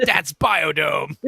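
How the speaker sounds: slow. Retold or imitated. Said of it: "I was like".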